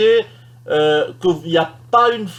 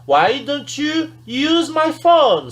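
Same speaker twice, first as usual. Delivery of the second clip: polite suggestion; 9 semitones higher, much slower than usual. Shown as a demonstration. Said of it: "On va lui dire".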